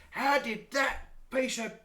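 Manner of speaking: high, loud, drawn-out disbelief breaking into laughter; incredulous outburst. Acted. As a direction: crack up while exclaiming in mock outrage. Crewmate's baffled outburst at rival's win.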